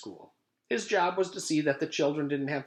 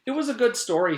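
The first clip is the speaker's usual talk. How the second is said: put-on enthusiastic kid; 12 semitones higher, 7 dB louder, faster than usual. Leslie enthusiastic.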